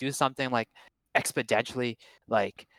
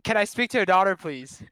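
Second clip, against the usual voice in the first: a slightly calmer bad British accent; same line again in a weak British accent; repeated British accent try; 7 semitones higher, 4 dB louder than usual. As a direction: say it again clearer, still mock British. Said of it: "what were you trying to say".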